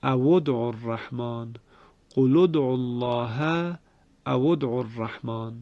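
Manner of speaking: او ادعوا with damma, awu d'u, recited; Ibn Kathir recitation. Shown as a demonstration. Teacher recites the Ibn Kathir form again. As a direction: recite او ادعوا الرحمن joining with u.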